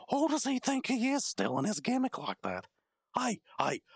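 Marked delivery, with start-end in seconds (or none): 3.2-3.8 hushed hiss at the stranger; calling him over under the breath; whisper. Acted. Calls out to the masked man.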